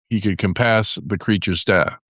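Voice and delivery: ordinary delivery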